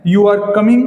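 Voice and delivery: plain statement with little movement, settling on "coming"; falling intonation. Shown as a demonstration. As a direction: say "coming" without lifting it, as a statement. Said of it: "बल्कि down दिखाई दे रहा है".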